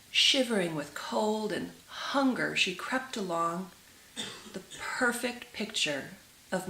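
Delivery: gentle, measured storytelling to listeners; tender read-aloud storytelling; storybook narration. A narrator's reading. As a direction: read it like a fairy tale by the fire. Reads fairy tale aloud.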